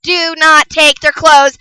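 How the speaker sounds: "Do not take their clothes" slow and deliberate, punching "not"; emphatic warning. Real, not acted. Vlogger warning parents about clothes, insistent emphasis. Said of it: "I can't even stress this enough".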